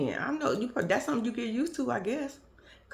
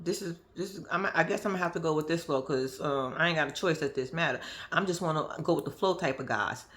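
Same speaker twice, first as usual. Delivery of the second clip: imitated laid-back man; 5 semitones lower than usual. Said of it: "He was like".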